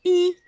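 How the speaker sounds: "i" alone, high and loud; vowel sound isolated. Shown as a demonstration. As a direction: pick out "i" clearly as a pure vowel. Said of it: "On entend".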